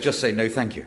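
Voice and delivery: lightly voiced posh pupil politely declining; posh school kids. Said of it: "for the posh school kids".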